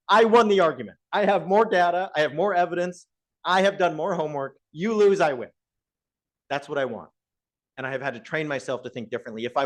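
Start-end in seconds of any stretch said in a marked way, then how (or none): 0.1-5.5 smug gloating. Retold or imitated. Professor gloating to himself after winning a debate, higher and triumphant. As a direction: crow over winning the argument. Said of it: "I like it when I walk away thinking".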